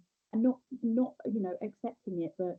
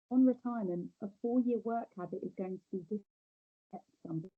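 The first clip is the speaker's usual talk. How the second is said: muffled. Real, not acted. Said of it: "you're really muffled".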